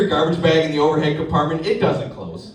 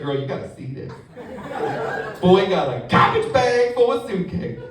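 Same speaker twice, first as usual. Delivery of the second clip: mock radio call; 3 semitones higher than usual. Gate lady on the radio.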